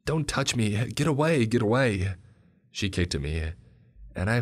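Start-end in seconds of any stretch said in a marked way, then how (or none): 0.1-1.5 high, loud panicked scream. A narrator's reading. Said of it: "started to scream". 1.5-2.1 screaming. A narrator's reading. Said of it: "started to scream".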